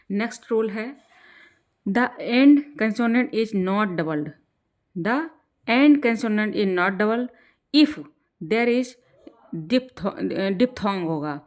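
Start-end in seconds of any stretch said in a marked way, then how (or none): 1.9-4.3 slow dictation. Shown as a demonstration. Teacher dictating grammar rule. 4.9-10.3 slow dictation. Shown as a demonstration. Teacher dictating grammar rule.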